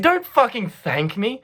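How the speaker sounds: acted-out angry protest; retold yell. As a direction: imitate her snapping back in outrage. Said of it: "And she yells at me".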